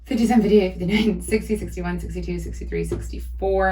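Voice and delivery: out of breath from counting; breathless, winded counting; running out of air. Real, not acted. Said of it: "I'm running out of breath".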